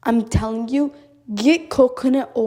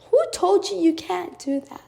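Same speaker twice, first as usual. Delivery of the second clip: indignant challenge; 7 semitones higher than usual. Real, not acted. Rhetorical challenge to society's limits.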